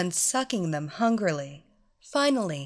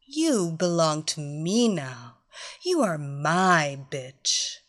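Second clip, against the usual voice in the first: slow, gloating commands; domineering mistress; 2 semitones lower than usual. Acted. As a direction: gloat as you give orders. Mistress demands worship.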